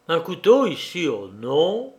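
"Un couteau ici" in mock surprise, "oh non" falling calmly; feigned innocence. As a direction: play innocent, placid denial of "couteau". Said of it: "de quel air placide je réponds".

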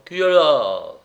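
tipsy challenge to whoever's there; insistent shout. A narrator's reading. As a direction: call towards the door. Drunkard repeats his sudden cry.

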